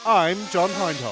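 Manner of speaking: mock Geordie commentator intro; imitating a Geordie accent. Geordie accent, co-commentator doing a Geordie-voiced commentator. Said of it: "So you did the wrong accent".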